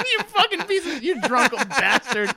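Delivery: affectionate insult, laughing, slowing down. Real, not acted. Host laughing at a friend's joke at his expense. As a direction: curse him out through laughter.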